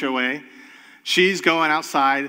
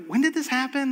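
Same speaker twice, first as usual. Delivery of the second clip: a board member's high, surprised question; 10 semitones higher than usual. Retold or imitated. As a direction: pitch it up in mild surprise.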